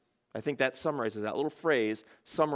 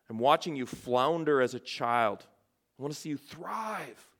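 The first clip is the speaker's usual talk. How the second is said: tender mother talk; 2 semitones lower than usual. Acted. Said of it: "he changes his tone".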